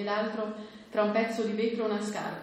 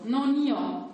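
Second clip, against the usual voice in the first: a hint of a slurred, broken father; louder, higher; lightly voiced drunk father; 5 semitones higher, 5 dB louder than usual. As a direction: deny it, half broken.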